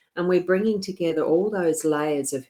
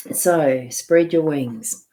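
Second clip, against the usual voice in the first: slow, louder, firm delivery; emphatic; 6 dB louder, slower than usual. Shown as a demonstration. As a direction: proclaim it slowly and firmly. Repeats card message, then whispers.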